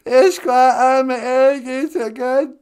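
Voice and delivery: slow, tearful Ojibwe word; crying voice. Acted. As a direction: say Ishkwa with a fake sob. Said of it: "Can you take the cry out?".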